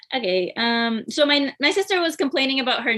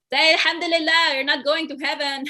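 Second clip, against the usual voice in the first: mock yell up stairs; 4 semitones higher than usual. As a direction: imitate dad calling up the stairs to scold. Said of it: "yelling up the stairs".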